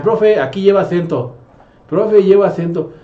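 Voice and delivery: a hint of an eager pupil pointing out a mistake; students correcting teacher. Students telling the new teacher about a missing accent, mildly eager. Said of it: "los mismos alumnos me decían".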